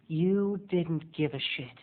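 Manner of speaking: usual speaking voice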